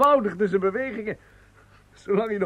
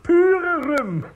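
higher, louder, chuckling; amused; 11 semitones higher, 4 dB louder than usual. Acted. The manager jokes that the warm drink is pure rum. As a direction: tease with a grin.

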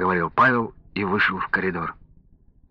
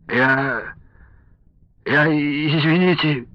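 high, slow, faltering whimper; 5 semitones higher, much slower than usual. A narrator's reading. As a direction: stammer an apology through whining. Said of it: "захныкал пьяный". (медленно, тонко, хныча)

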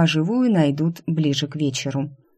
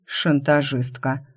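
сквозь зубы; slower than usual. Acted. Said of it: "процедил сквозь зубы Драйден".

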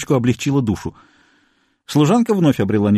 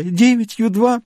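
high, slow tearful counting; sobbing; 10 semitones higher, slower than usual. A narrator's reading. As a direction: weep out the numbers. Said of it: "рыдая". (рыдая, медленно и высоко)

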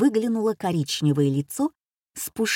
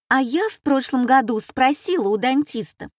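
flustered; 4 semitones higher, 3 dB louder than usual. Acted. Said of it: "заволновалась барышня".

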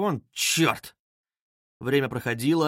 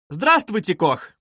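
bright raised hello; cheerful greeting; 4 semitones higher, 3 dB louder, slower than usual. A narrator's reading. Young man greeting Koch, cheerful. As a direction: greet him gaily. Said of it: "звонко и весело закричал".

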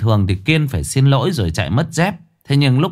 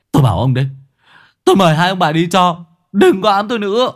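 raised, heated retort; high exasperated send-off; angry defiance; 7 semitones higher, 4 dB louder, faster than usual. Acted. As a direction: order them away, voice climbing. Angrily ordering ghosts to leave.

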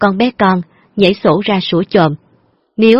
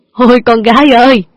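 loud hammed-up wail; father feigns grief for the driver, loud wail; mock lament; 4 semitones higher, 5 dB louder than usual. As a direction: fake grief, higher and louder.

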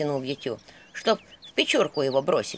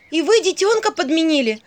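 high, loud, blurted in shock; 9 semitones higher, 6 dB louder than usual. Acted. Vasilisa blurts at the skull, high and alarmed. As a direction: let it slip out before she can stop it. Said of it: "выпалила Василиса".

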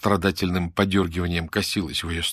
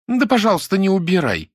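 sharp high burst of anger, much louder; flaring up; 11 semitones higher, 5 dB louder than usual. A narrator's reading. Lyuda flares at Nadya over her bed, angry outburst. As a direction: snap back in a sudden flash of temper. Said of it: "вспыхнула Люда".

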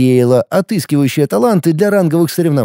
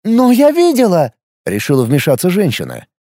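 heated shout; 8 semitones higher than usual. Acted. Woman and Phil quarrel.

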